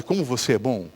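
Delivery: a hint of the sly tempter; tempting devil voice. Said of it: "Vocês nunca ouviram essa voz?". (voz do diabo, baixa e bajuladora)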